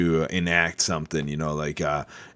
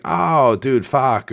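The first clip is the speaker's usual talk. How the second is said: higher, louder mock exasperated outburst; lightly acted frustrated curse; startled curse; 8 semitones higher, 6 dB louder, much slower than usual. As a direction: react like it finally clicked. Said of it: "And you'd be like".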